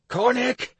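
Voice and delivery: loud, slow desperate yell for help. Acted. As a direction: call out to your teacher. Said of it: "I yelled telepathically into the ether".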